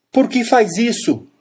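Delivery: sudden, high, shouted outburst. The narrator cries out to the brother, shouting.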